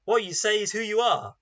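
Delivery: playground taunt. Retold or imitated. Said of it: "a bit like children in the playground".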